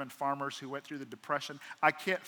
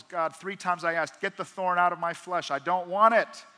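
mild pleading build; 3 semitones higher, 7 dB louder than usual. Acted. Paul begging God.

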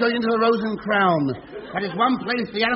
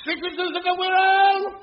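through a megaphone; 5 semitones higher than usual. Acted. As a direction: call it out over a loudhailer. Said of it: "picked up a megaphone".

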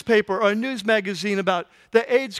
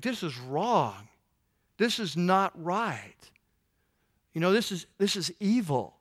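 quiet anger; 3 semitones lower, 6 dB quieter than usual. Retold or imitated. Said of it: "You just get angry".

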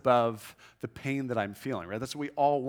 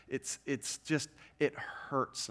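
pained hush; 6 dB quieter, slower than usual. Retold or imitated. Voicing aching body.

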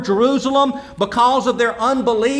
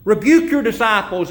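mock Pharisees; 4 semitones higher than usual. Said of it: "and they say".

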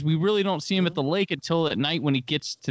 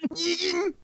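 mock drawl; 13 semitones higher than usual. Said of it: "You can't say Megan".

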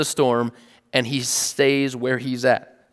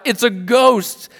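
"It's a ghost!" read out higher and slowly, a mild frightened cry; read cry of fear; 9 semitones higher, 5 dB louder, slower than usual. A narrator's reading. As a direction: voice the disciples' fear lightly while reading. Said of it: "they were terrified and cried out".

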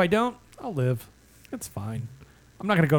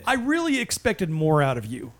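lightly voiced disappointed dad; 2 semitones higher than usual. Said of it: "It's, it's the dad voice".

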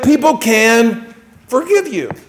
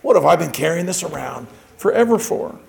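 exasperated; 5 semitones lower, 6 dB quieter than usual. Retold or imitated. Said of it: "they're like".

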